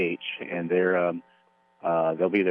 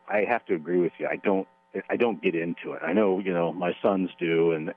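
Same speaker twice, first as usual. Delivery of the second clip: normal talking voice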